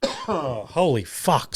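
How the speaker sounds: slow, faint words right after a coughing fit; hoarse after coughing. Real, not acted. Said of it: "still feeling a little under the weather".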